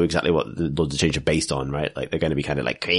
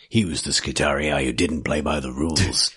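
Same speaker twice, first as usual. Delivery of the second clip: action movie trailer voice; 2 semitones lower than usual. Pretend. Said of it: "There's not loads of room for, like".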